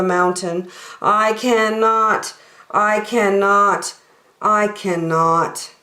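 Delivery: slow, sighing, tired refusal; an old engine too tired to try; rusty old engine sighing, slow and weary. Acted. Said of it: "the rusty old engine sighed".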